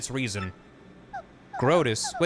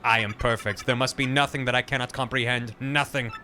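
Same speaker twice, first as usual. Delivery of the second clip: computer voice. Acted. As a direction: insist like a proud computer. Computer lines.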